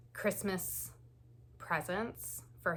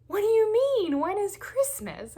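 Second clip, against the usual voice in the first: much higher, louder baffled question; confused surprise; 11 dB louder than usual. Retold or imitated. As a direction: sound thrown and puzzled, pitched way up. Husband confused about Christmas date.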